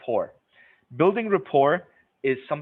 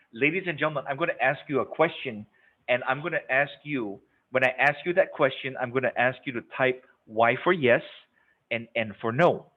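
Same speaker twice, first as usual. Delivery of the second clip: clear presenter voice. Shown as a demonstration. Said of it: "this is how I do it".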